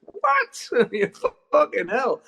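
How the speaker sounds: sudden very high squeak of disbelief; shocked what. Retold or imitated. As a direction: yelp it in total surprise. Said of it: "I was like".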